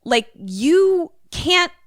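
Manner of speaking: mock furious high rant; angry Josh. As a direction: spit it out, hurt and furious. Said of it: "And Josh is like".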